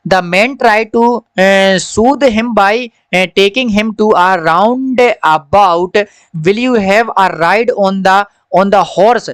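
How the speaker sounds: slow, careful reading-aloud voice; a teacher reads the story line by line to children. Acted. Slow story reading for the class.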